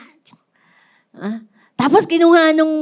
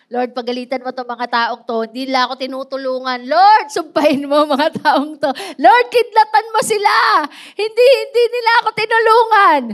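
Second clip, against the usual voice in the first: mock angry prayer building to a shout; 4 dB louder, faster than usual. Lame man begging the Lord to punish people, rising to a mock shout. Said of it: "Gusto nung lame man, no, pagalitan niya yung mga tao".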